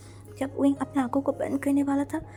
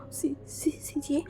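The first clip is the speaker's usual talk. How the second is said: higher, louder stammering sobs; crying; 4 semitones higher, 3 dB louder than usual. Acted. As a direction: wail through tears. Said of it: "विंग रोते रोते बोला". (रोते रोते ऊँची टूटी आवाज़)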